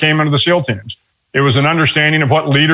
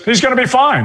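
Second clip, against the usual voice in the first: high-pitched, lightly imitated Australian doctor; Australian accent; 9 semitones higher than usual. Australian doctor reassuring patient's wife, lightly imitated Australian accent. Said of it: "still has a heavy Australian accent".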